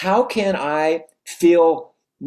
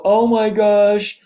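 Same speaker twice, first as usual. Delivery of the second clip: self-pitying whine; 4 semitones higher than usual. Retold or imitated. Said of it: "Would the best version of you at this moment go".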